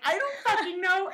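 high, fed-up throwaway; mock helpless mom; exasperated shrug. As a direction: toss it off in defeat. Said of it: "I'm like".

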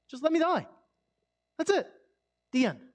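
loud, high, a hammed-up plea to die; mock despairing cry. Preacher voicing a despairing prayer, loud and mock-tragic. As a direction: wail it like a prayer that has given up.

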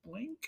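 small, high, soft blip; imitated game blip. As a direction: make a tiny video game jump noise. Imitates game jump noise.

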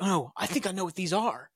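light, retold panic without extra volume; mock freaking out. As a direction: imitate someone starting to freak out. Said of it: "Jack's freaking out".

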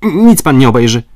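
high, loud refusal; firm refusal. A narrator's reading. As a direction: bark the refusal at the major. Paganel refuses examination.

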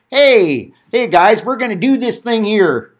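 folksy everyman voice. Retold or imitated. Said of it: "kind of trying to talk like the everyday man".

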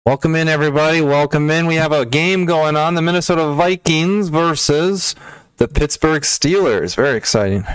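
blown-out overdriven mic; loud distorted clipping audio. Real, not acted. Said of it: "why do you sound so blown out".

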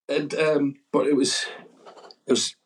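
usual speaking voice

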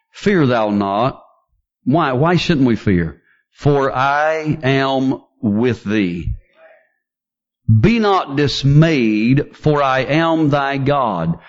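slow, solemn verse reading; measured pulpit reading; slow scripture reading. Acted. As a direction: read it slowly and gravely.

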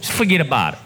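low-pitched mock New Jersey accent; lightly imitated Jersey accent. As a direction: echo the Jersey guy's accent. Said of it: "I may not be doing the Jersey accent justice".

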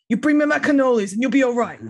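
lightly voiced Godfather don; a touch of menacing mobster; mob boss voice. Godfather gangster impression.

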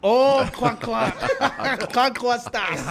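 laughing. Real, not acted. Laughing at old nickname.

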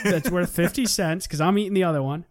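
laughing through the words; chuckling while joking. Real, not acted.

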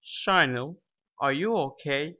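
"Shinil" and "are you okay?" both end rising; rising question tune. Shown as a demonstration. Teacher repeats the example, rising question tune. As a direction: let "okay?" climb at the end. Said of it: "Notice the voice tone, the intonation".

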